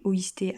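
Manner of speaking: "oïsté" with the I made distinct; "oïsté", the I standing clear of the O; stress on I. Shown as a demonstration. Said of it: "accent sur le I".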